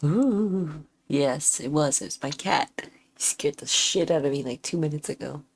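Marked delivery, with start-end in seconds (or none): 2.0-5.4 hushed whisper about the cat. Real, not acted. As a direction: whisper it, breathless. Telling about the scary cat.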